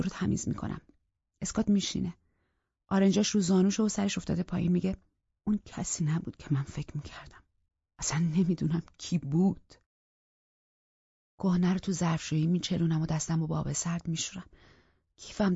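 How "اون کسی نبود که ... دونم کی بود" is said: defeated. Acted. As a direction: say it head hanging down. Scott defeated, head down.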